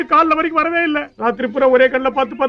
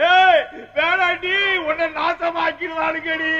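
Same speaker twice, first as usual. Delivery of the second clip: higher, very slow desperate cry; panicked warning; 4 semitones higher, much slower than usual. Acted. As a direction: plead with her to stop. Mother calls out warning. (பதற்றமான எச்சரிக்கை)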